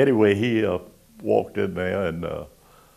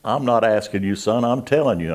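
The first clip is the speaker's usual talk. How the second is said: stern order; 5 semitones higher, 9 dB louder than usual. Retold or imitated. Commander gives order.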